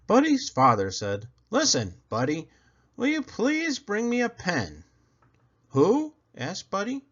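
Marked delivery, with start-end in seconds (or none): 1.5-4.8 higher, patient father asking; a dad calmly asking his son. Acted. Father asking Buddy for a pen, patiently. 5.7-6.1 high, puzzled little bunny; a small rabbit who misheard; Buddy voice. Acted. Buddy puzzled by his father's request, high voice.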